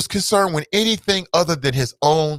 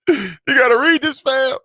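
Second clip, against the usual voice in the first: excited; 10 semitones higher, 4 dB louder than usual. Real, not acted. Repeat, louder.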